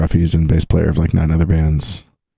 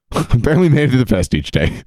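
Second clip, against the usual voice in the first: laughing; 6 semitones higher than usual. Real, not acted. Laughing at own wild trip.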